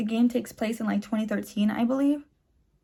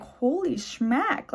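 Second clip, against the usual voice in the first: amazed; 3 semitones higher, much slower than usual. Retold or imitated. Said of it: "I was like".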